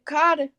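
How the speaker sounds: "God" as Southern "Cahdah" for Carter; dropped R in Carter. Shown as a demonstration. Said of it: "I don't ever say Carter".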